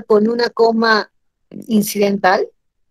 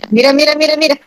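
insistent call; 4 semitones higher, faster than usual. Shown as a demonstration. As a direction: call out "mira" firmly to the student. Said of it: "Ahí te voy a agarrar". ("mira, mira, mira" insistente y fuerte)

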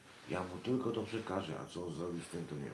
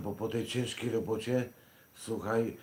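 normal talking voice

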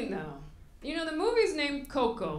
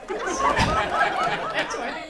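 slow, much louder, laughing; Mama Coco punchline; 9 dB louder, much slower than usual. Pretend. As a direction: play the old lady boasting of wild days.

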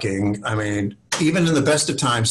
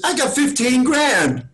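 much higher and slow; Ed Burns proudly; 13 semitones higher, slower than usual. Retold or imitated. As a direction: announce a tiny budget like it's a fortune. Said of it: "He goes".

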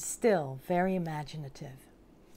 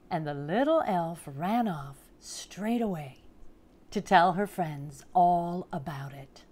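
picture-book storytelling, unhurried pauses; storybook narration; 6 dB louder than usual. A narrator's reading. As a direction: read it to small children, savouring the big words. Reads picture book aloud.

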